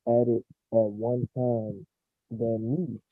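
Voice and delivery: muffled, like through a wall. Real, not acted. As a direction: voice dampened behind a wall. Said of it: "is that him sounding muffled again".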